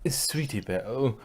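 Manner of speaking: hushed, breathy dismay; whisper. Acted. Rarity whispering to her sister in dismay. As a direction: breathe her name in horror.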